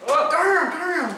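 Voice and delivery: surprised. Real, not acted. Phone dropped in sauce.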